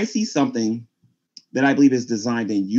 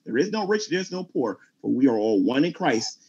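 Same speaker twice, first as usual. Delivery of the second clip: preaching. Real, not acted.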